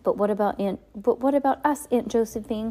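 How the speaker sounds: high, loud horrified protest. A narrator's reading. Klaus confronts the aunt abandoning the children, horrified. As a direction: call out to her in dismay. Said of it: "Klaus said in horror".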